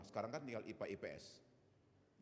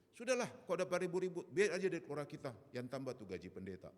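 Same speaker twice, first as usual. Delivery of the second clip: mild, louder exasperated brush-off; dismissive retort; 3 semitones higher, 4 dB louder than usual. Retold or imitated. Mother telling father to drop the fuss, dismissive. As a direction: brush the argument aside, raised at first then settling.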